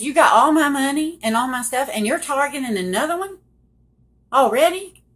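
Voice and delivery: loud, high, outraged accusation; angry shout. Retold or imitated. Wife furious he already targets another woman, shouting. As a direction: hurl it at him in disbelief. Confronting husband over other woman.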